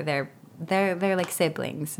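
ordinary delivery

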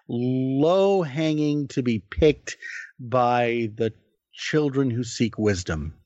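slow, lofty poetic flourish; mock grand oratory. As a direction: overblown speech, drawn out slowly. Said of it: "Is that a euphemism?".

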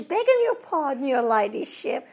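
high, polite toff voice; fawning English twit, pitched well up; Mister Twit. Retold or imitated. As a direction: simper a high apology. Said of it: "He says".

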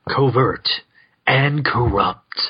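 conspiratorial hush over the words; mock-sinister whisper; hushed dramatic whisper. Shown as a demonstration. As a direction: whisper covert, slow on corrupt. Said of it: "covert whisper".

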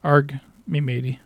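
lightly voiced improv pirate; a hint of a stock pirate. Friend told to play a pirate, light pirate voice. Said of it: "Eric, you're a pirate".

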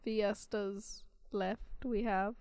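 slow, dragging monotone. Acted. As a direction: droop through each word. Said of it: "I'm in this monotone voice".

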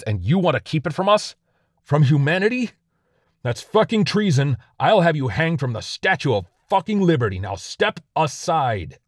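high, loud angry tirade; an enraged officer threatening a soldier; furious berating. Acted. Officer berates airman in anger.

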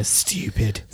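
low, slow mock British; whispered British insult. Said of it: "British people whispering insults into a microphone".

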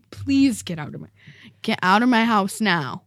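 softened, courteous version with please; polite request. Shown as a demonstration. Girl rewriting the line to be polite, courteous. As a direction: ask him out politely. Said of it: "I would say".

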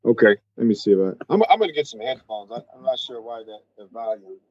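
muffled. Real, not acted. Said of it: "it's just really muffled".

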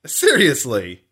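hammed-up offended shouting; mock outrage. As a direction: scold the co-host in fake shock.

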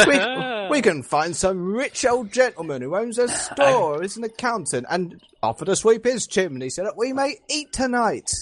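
put-on old-fashioned Victorian English accent. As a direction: speak like a Victorian London gentleman. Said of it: "I've been doing a Victorian accent all day".

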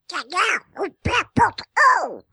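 squawky cartoon duck voice; Pato Donald voice. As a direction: quack the words like a cartoon duck. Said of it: "em voz de Pato Donald".

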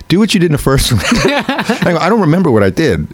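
laughing through the words, high. Real, not acted. Actor retelling the callback while laughing, high. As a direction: talk while cracking up.

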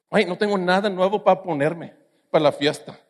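lightly voiced spoiled rich girl; a hint of a preppy fresa girl; sorority girl. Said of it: "Estoy hablando como fresa".

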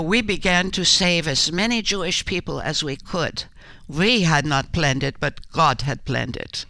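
slightly set-apart quoting voice, a hint of Corrie's Dutch lilt. Actress quoting Corrie to the interviewer in a light Corrie voice. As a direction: lightly voice Corrie's words as a solemn quote. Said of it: "I quote Corrie when she said".

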